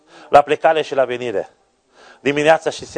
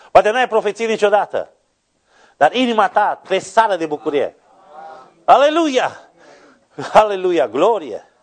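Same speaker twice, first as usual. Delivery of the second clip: raised, high-pitched preacher's cry; fervent preaching; 7 semitones higher, 4 dB louder than usual. Real, not acted. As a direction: preach it out to the congregation, climbing to the Aleluia. Preacher rises to full force. (predică înflăcărată, cu voce ridicată)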